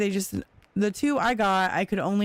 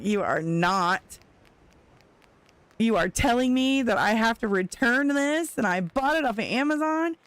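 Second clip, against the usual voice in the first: upset disbelief; 3 semitones higher than usual. Retold or imitated.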